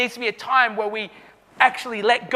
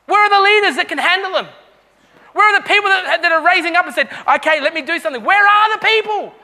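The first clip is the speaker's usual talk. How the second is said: higher, louder rebuking questions; rebuke; 4 semitones higher, 4 dB louder than usual. Real, not acted. Pastor rebukes his church for missing leaders. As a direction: challenge them, call them out. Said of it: "Oh, it's a bit of a rebuke".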